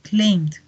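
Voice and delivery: "claimed" closing on a soft t-like d; soft T-like ending. Shown as a demonstration. Teacher drills past forms, "claimed" with soft T-like ending. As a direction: add a gentle stop ending "claimed". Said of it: "Suena un poquito como una T".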